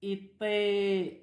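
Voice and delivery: étaient with a long final vowel; model word. Shown as a demonstration. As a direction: stretch out étaient for the class. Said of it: "on dit, elles".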